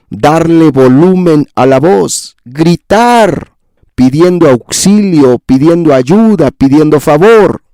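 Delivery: sube la voz con un tono más agudo; voz alzada. Shown as a demonstration. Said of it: "alzar la voz". (alzando la voz)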